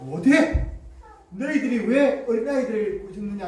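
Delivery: mildly acted indignant rebuke; angry Jesus. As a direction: challenge the disciples with a touch of anger. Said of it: "오히려 예수님께서 화를 내셨습니다". (살짝 노한 꾸짖음)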